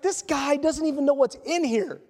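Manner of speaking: chuckling through the words; laughing. Real, not acted. Recalling the wedding gift Bible, laughing through it. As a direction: laugh while you say it, really amused. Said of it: "I'm laughing".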